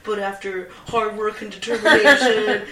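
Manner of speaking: lightly voiced meathead, half laughing; a loose, giggly take on a comic's gym guy; Chris D'Elia bit. Quoting a comedian's gym bro bit, a light mock voice. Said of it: "my favorite bit from Chris D'Elia when he's just like".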